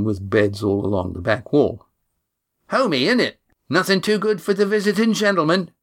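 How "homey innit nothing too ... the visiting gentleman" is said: higher, cheeky sarcastic voice. Acted. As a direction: tease with mock grandeur. Cam sarcastic cockney.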